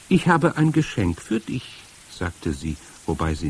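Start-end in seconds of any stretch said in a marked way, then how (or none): 0.1-1.8 high-pitched luring stranger; eerie high-voiced woman; strange witch voice. A narrator's reading. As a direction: coax the child in a high witchy voice. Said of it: "Ihre Stimme hatte einen merkwürdigen, rasselnden Klang".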